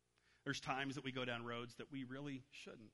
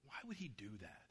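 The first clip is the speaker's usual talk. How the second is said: hushed, fed-up muttering to himself; frustrated muttering; 4 semitones lower, 7 dB quieter than usual. Retold or imitated. A dad alone in his study, irritated by his son's question, muttering low. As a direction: grumble it under your breath. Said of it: "he's just, just getting frustrated".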